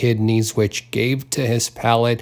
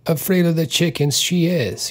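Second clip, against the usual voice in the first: mocking; 5 semitones higher than usual. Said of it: "he said mockingly".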